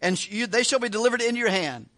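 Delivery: sarcastic, overdone assurance. Retold or imitated. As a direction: read the prophecy as if mocking it. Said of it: "he says it sarcastically".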